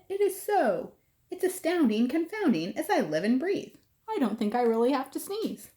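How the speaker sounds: high, delighted amazement; amazed elephant. Acted. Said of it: "cried the elephant".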